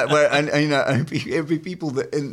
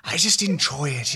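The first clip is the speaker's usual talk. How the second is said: Louis Theroux. Shown as a demonstration. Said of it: "Is it kind of putting that breath".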